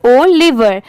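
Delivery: ओलिवर with its first O standing apart; separate O sound. Shown as a demonstration. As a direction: say ओलिवर as "O" plus "liver". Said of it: "ओ की sound separate आ रही है".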